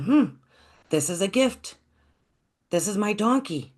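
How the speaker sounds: put-on high, thrilled boy voice; a boy who can't believe his luck; excited. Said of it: "So the boy got very excited".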